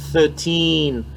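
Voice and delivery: Thirteen with the tongue between the teeth; th sound. Shown as a demonstration. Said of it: "en plaçant la langue entre les dents". (Thirteen, langue entre les dents)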